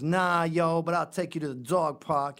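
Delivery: imitating street talk; hammed-up "yo" voice; mock ghetto slang. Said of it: "she goes".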